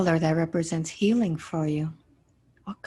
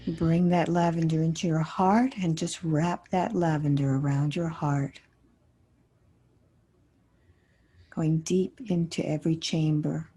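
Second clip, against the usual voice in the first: guided meditation. Acted. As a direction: guide them gently through the imagery, unhurried. Guides a healing visualization.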